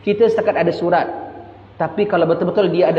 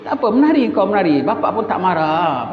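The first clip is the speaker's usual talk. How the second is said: a dad saying he isn't angry at all; indulgent father; 3 semitones higher than usual. Acted. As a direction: wave it all through breezily. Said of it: "itu namanya bapak Tiga Abdul".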